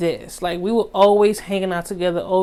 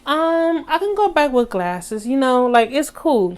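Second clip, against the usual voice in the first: mock casual; 4 semitones higher than usual. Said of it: "And I was like".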